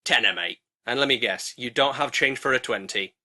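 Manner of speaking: low, geezer-ish crow voice; a shifty car-park hustler crow; dodgy crow. Acted.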